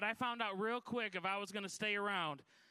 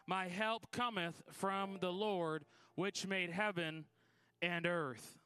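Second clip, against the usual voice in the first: slow, solemn scripture read; slower than usual. Acted. Preacher reading the psalm to the church, slow and solemn. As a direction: read the verse slowly and reverently.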